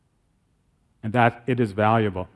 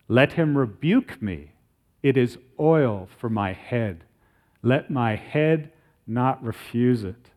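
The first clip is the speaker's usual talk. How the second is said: slow, measured Psalm reading; scripture reading; slower than usual. Acted. Preacher reading a Psalm to the congregation, slow and solemn. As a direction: read it out slowly, drawing out key words.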